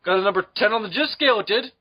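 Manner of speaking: brisk, lively joke Canadian; good-hearted mock Canadian; mock Canadian accent. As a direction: crow it in a put-on Canadian accent. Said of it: "I'm talking like a good-hearted Canadian".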